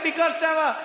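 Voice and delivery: put-on high, loud Indian accent, quick and cheeky. Waiter boasting to Trevor about the prank, high Indian accent. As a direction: explain the prank like a proud Indian uncle.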